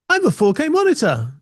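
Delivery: high, proud gadget announcing itself; monitor voice. Pretend. Monitor introduces itself to the computer, high voice. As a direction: say it like a boastful screen.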